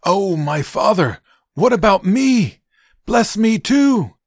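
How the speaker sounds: high, drawn-out anguished wail; loud, bitter cry. A narrator's reading. Esau begs his father for a blessing, crying out bitterly. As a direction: cry out slowly, begging with full force. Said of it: "loud and bitter cry".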